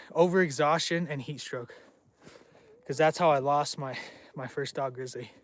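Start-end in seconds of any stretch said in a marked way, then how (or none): none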